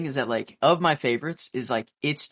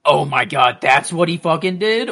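shocked reaction; 5 semitones higher, 7 dB louder than usual. Retold or imitated. Acting out own imagined shocked reaction.

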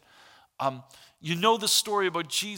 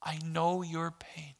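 slow tender comfort; 4 dB quieter, slower than usual. Acted. God's answer continues.

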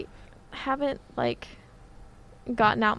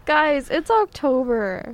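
excited announcement; 4 semitones higher, 5 dB louder, slower than usual. Real, not acted.

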